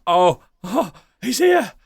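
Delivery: high excited gasp; excited squeal. Pretend. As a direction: squeal it with delight. Host excited at star arrival.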